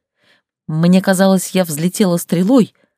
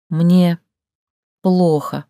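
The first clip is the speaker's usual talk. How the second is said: forced out; 2 semitones higher, much slower than usual. Acted. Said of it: "выдавила я".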